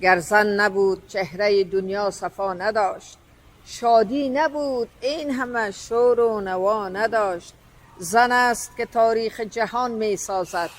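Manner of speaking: slow, measured verse reading; poem recitation. Acted. Host recites verses honouring women, slow poetic recitation. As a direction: recite it slowly, line by line with pauses.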